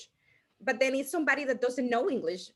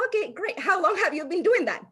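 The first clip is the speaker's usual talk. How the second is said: high, keen scripted follow-up question; acting out an eager learned small-talk line; memorized networking script; 7 semitones higher, 3 dB louder than usual. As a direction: recite the next rehearsed question, voice lifted. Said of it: "I will say".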